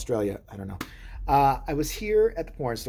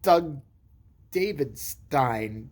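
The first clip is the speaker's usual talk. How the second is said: flustered lie; 3 semitones higher, much slower than usual. Retold or imitated. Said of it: "when I'm caught off guard".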